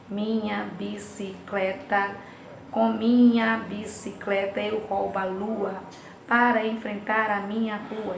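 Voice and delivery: slow, syllable-by-syllable poem reading; deliberate, metrical delivery; measured verse recitation. Shown as a demonstration. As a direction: recite the verse slowly, drawing out each beat. Teacher recites poem to show syllables.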